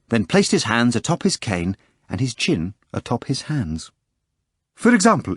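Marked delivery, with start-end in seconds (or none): 4.7-5.3 Berlioz voice. Acted. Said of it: "Berlioz was saying".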